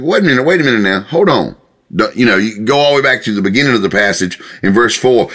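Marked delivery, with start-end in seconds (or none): 0.0-1.6 higher-pitched call to stop and think; halting objection. Acted. The passage interrupting the proud, mildly objecting. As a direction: cut in to check them, lightly acted. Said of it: "this whole passage is like this".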